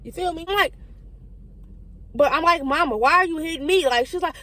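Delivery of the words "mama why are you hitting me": put-on child's protest.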